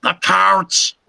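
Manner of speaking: very high, slow, over-the-top radio host greeting; high announcer voice. Retold or imitated. Welcoming the Living Dead girl to the show in a squeaky host voice. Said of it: "I had to literally be like".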